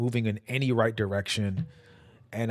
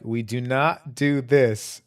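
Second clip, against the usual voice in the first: slow, spaced-out instructor warning; measured retold warning, each word set apart; firm warning; 2 semitones higher, 4 dB louder, slower than usual. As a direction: lay down the rule word by word, slowly. Instructor showing gun handling, retold.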